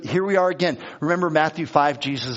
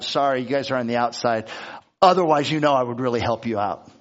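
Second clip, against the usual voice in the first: lightly voiced, lower-pitched self-justifier; self-serving excuse; 4 semitones lower, faster than usual. Son excusing himself from helping Mom and Dad, self-serving. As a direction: make a low, offhand excuse to your parents. Voices Pharisee dodging parents' need.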